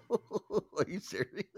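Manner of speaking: high, soft laughing question; laughing disbelief. Real, not acted. Co-host reacting to the truck story, laughing in disbelief. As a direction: ask it through real laughter.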